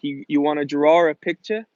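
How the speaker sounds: imitating a New England teacher; New England accent. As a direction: put an intrusive R into draw, New England style. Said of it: "all my teachers had, they said".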